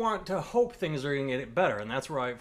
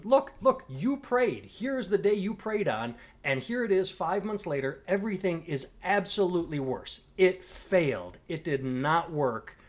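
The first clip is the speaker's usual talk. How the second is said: raised exasperated plea; 5 semitones higher than usual. Pretend. Imagined lecture to a believer.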